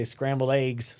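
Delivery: slight West Texas twang on eggs; Texan-accented example word. Shown as a demonstration. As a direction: show off your own Texas drawl. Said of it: "we do talk like that".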